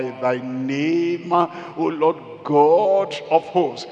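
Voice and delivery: stretched, solemn preacher's recitation; scripture declamation. Real, not acted. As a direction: proclaim the verse with long held words.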